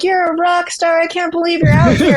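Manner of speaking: imitating cheerers. Runners passing her on the course, imitated cheering. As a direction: play the passersby hyping her up.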